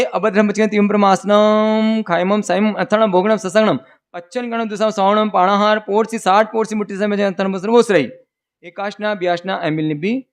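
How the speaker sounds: steady, rapid liturgical chant of the vow; ritual recitation. Acted. Preacher administers the fasting vow to the congregation, chanting. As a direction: recite the vow formula in one flowing chant.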